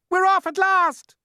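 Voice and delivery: high, loud triumphant shout; excited cheer. Acted. Creatures shout the journey begins, excited. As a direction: cheer the long-awaited start.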